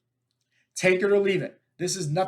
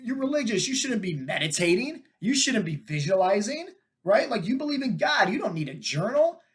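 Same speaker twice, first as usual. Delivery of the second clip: mocking critic; 5 semitones higher than usual. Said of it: "The woo-woo".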